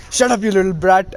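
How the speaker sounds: mildly acted annoyed outburst; irritated retort. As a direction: play a grumpy beast telling off a kid, lightly. Kurama snaps at Naruto in story.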